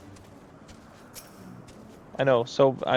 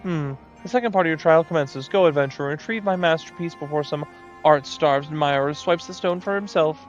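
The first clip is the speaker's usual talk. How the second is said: lightly raised, flustered artist moogle; a hint of a fussy moogle; 3 semitones higher than usual.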